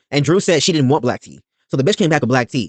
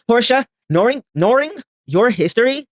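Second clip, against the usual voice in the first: scolding; 10 semitones higher, slower than usual. Real, not acted. Scolding Portia at the TV.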